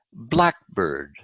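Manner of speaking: blackbird with BLACK stressed; stress on first part. Shown as a demonstration. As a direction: hit BLACK in blackbird, let bird drop. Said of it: "generally the first part".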